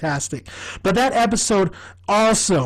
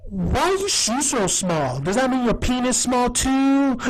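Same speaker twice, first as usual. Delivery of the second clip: The speaker as Tina Martinez; 5 semitones higher than usual. Retold or imitated. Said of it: "D comes in and she's like".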